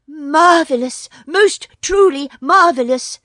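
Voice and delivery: high, loud, fawning jackal yip; a sly jackal gushing in a high yelp; sly yippy jackal. Acted. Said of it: "said the Jackal".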